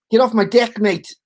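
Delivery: attempted Australian accent; Aussie accent. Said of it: "we used to do the Aussie one".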